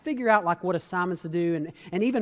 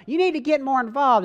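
higher, louder mock-mom scolding; imitating mom; 6 semitones higher, 4 dB louder than usual. Mom telling son to get involved, higher mock-mom voice. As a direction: put on a prim mother's voice. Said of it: "I don't know why I'm talking that way".

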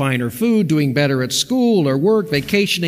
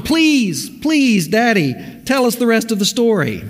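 put-on pleading child voice; 7 semitones higher than usual. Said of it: "the plea went on".

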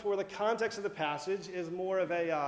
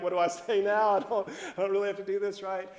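nervous; 3 dB louder, faster than usual. Retold or imitated. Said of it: "looking at your mom nervously".

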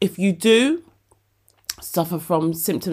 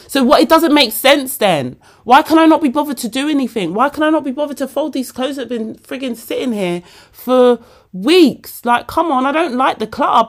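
louder, higher exasperated venting; frustrated, higher and louder; frustrated rant; 5 semitones higher, 4 dB louder than usual. Real, not acted. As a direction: vent at your own procrastination. Frustrated rant about laziness.

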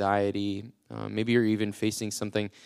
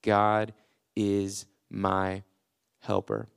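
modeled declaration; much slower than usual. Shown as a demonstration. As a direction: show them how to say it to their problems. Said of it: "look your problems square in the face and say".

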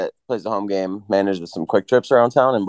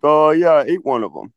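spacey hippie voice; 8 semitones higher, 3 dB louder than usual. Retold or imitated. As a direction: play the clueless old hippie. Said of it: "He's like".

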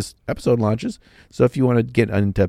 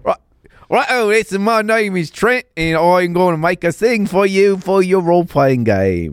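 much higher, hammed-up Aussie accent impression; Trent in an Aussie accent; 8 semitones higher than usual. Co-host mimics Trent on request, high Aussie accent. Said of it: "give me your best Aussie accent".

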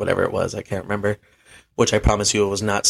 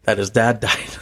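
laughing. Real, not acted. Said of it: "Let me stop laughing".

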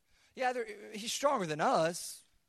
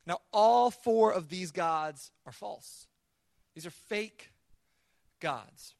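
emphatic declaration; 8 dB louder, much slower than usual. Real, not acted. Preacher driving his point home.

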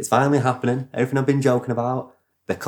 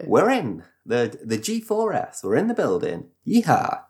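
lightly voiced cowboy robber, ending in a whoop; Wild West robber; 3 semitones higher than usual. Storyteller as robbers announcing the raid, light cowboy act. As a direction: play a mock cowboy raider. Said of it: "you know, Wild Wild West".

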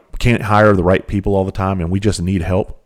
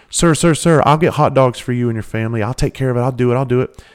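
polite lady; 4 semitones higher than usual. Retold or imitated. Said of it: "looks and goes".

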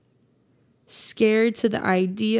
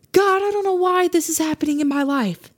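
whispered prayer; 6 semitones higher than usual. Retold or imitated. Voicing a distressed prayer.

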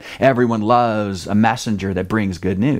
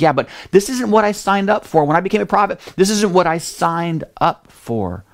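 higher, complaining objection; whiny protest; 5 semitones higher than usual. Retold or imitated. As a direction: push back like a fed-up employee. Jonah protests to God.

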